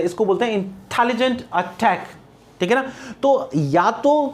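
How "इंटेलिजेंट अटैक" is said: "इंटेलिजेंट अटैक" with the टे stressed in both words; stress on टे sounds. Shown as a demonstration. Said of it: "stress है।". ("इंटेलिजेंट अटैक" के दोनों शब्दों में टे पर ज़ोर)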